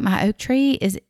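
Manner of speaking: can't believe it, rising; disbelieving question; incredulous. Retold or imitated. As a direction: pitch climbing in disbelief on azaleas. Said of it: "And I'm like".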